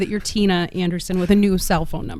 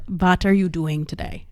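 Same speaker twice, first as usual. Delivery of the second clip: put-on slow German accent, grandma voice; grandma's German accent; slower than usual. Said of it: "do my grandma's German accent".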